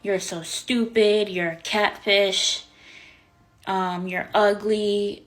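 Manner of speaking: mock name-calling, each insult leaned on; retold swearing. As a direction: mimic him hurling insults, drawn out. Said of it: "he starts swearing at me".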